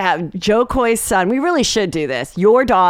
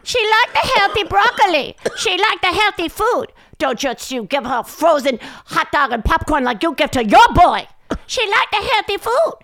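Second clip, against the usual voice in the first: much higher, insistent Asian accent impression of the mom; 12 semitones higher than usual. Mother's voicemail about healthy broccoli, high Asian accent impression. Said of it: "Oh, she's Asian".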